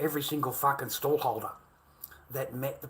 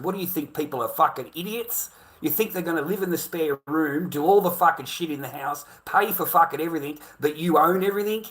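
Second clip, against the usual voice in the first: retold angry challenge; 3 semitones higher, 6 dB louder than usual. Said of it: "I try to tell this person".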